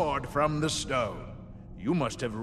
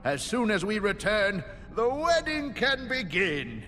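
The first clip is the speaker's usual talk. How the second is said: delighted, slightly raised royal proclamation; excited king; 2 semitones higher than usual. Acted. King congratulates the knight who won his daughter, excited. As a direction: gush like a thrilled future father-in-law. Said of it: "The king seems pretty excited".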